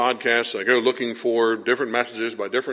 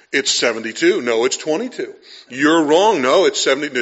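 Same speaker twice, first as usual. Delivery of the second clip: hammed-up squabble, building louder; mock arguing; 3 semitones higher, 5 dB louder than usual. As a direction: act out a petty, insistent back-and-forth. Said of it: "sit there and argue between Celsius and Fahrenheit".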